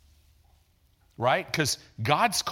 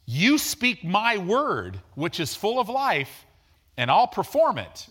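God speaking; 6 semitones higher, 4 dB louder than usual. Acted. God's promise voiced to his kids.

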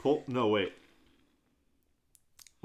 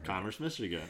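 laughing call-out; 11 dB louder than usual. Real, not acted. Shouting joke hometown.

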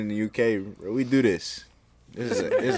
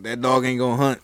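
lightly Southern folk saying; Southern accent. Retold or imitated. Someone coming up to you with a saying, light Southern accent. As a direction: quote it with a slight Southern accent. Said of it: "He said it in a Southern accent".

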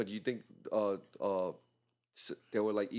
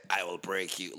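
Chong Li voice; 7 semitones lower than usual. Retold or imitated. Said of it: "with the voice".

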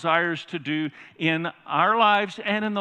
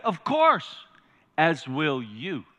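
measured lion's reply, falling away on the last words; quoting film lion; 4 semitones lower, much slower than usual. Retold or imitated. Preacher quoting the lion's answer to the congregation, lightly acted lion. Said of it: "And what does he say?".

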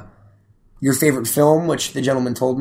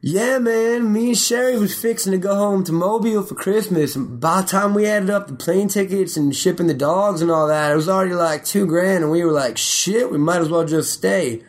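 higher-pitched Southern accent imitation; Jesse Rivers; 4 semitones higher than usual. Quoting co-host's phone call about Christmas plans, Southern accent. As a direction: mimic your co-host in a Southern twang. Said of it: "following sentence was heard out of Jesse Rivers' mouth".

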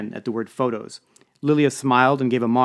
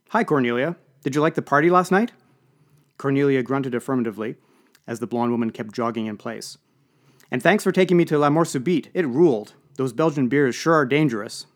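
put-on bright, bouncy young woman; bubbly; 2 semitones higher, 5 dB louder than usual. Bubbly young athlete greeting.

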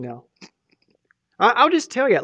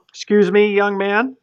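scolding Holy Spirit; 4 semitones higher, 6 dB louder than usual. Pretend.

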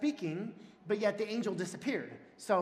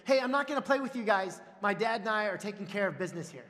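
mock yell, higher and louder at first; imitated kid's yell; 3 semitones higher, 5 dB louder, faster than usual. Young son yelling at passing kids, imitated yell. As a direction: call out importantly like a small boy. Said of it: "he yells at them".

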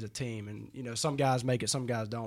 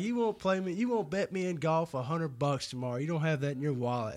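high teasing jab at a rookie; a touch of a playful taunt; mocking taunt; 3 semitones higher than usual. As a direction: needle him like a cocky buddy. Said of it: "he's making fun of me".

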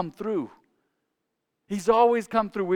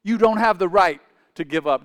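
forceful exhortation; 6 dB louder than usual. Real, not acted. Preacher repeats the forceful exhortation.

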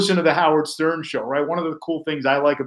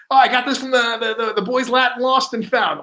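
higher, lightly mocking coworker voice; mimicking Quint; 8 semitones higher than usual. Host retelling his cohost's tie excuse, higher mock voice. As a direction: play the guy airily explaining his odd tie. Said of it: "He's like".

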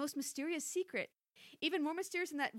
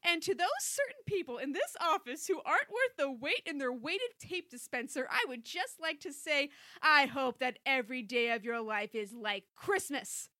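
mock angry speech; 4 dB louder than usual. Closing the angry office speech.

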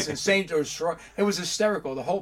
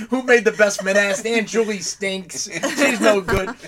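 put-on old men griping; 4 semitones higher, 8 dB louder, slower than usual. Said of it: "But all I heard was".

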